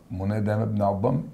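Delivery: quick confident delivery, fast; right answer, brisk. Shown as a demonstration. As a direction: state the correct answer briskly. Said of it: "إجابة صح".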